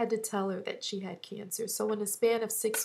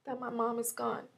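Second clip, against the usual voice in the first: holding back tears; 4 dB quieter than usual. Real, not acted. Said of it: "see, here I go".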